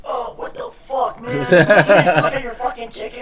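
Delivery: high, loud laughing rant as the angry passenger; hammed-up furious rant, laughing through it; mock angry passenger. Retelling the angry guy behind him on the plane, mock furious. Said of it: "And he was like".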